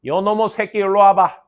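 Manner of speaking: old teacher impression. Old teacher calling his pupil over, mimicked scolding. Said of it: "그분 성대모사를 되게 잘했거든".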